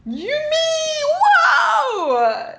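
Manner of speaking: high, loud cry to the dog; shrill-pitched, delighted alarm; startled shout. Real, not acted. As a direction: yelp as the dog jumps on you. Dog jumps up at her.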